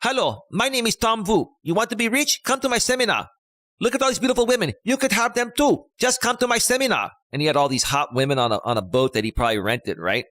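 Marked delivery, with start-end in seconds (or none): 0.0-7.1 high Asian immigrant accent, hammed-up infomercial pitch; a mock Asian accent selling the seminar; Tom Vu with Asian accent. Imitating Tom Vu's Asian accent in his seminar infomercial. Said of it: "He would go".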